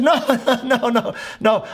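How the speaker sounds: no, no through a laugh; laughing denial. Retold or imitated. Pastor laughing off his friend's worry, giggly. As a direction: laugh it off while denying.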